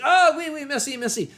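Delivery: a French driver's quick relieved thanks; lightly voiced French driver. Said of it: "And he said".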